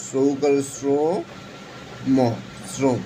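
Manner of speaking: শ্রম said slowly as "srom", drawn out and soft; slow pronunciation demo. Shown as a demonstration. Teacher to students, slowly sounding out শ্রম as "srom". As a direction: spell out "সৌকার শ্রম" slowly, then say শ্রম as "srom". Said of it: "শুদ্ধ উচ্চারণ এভাবে হয়".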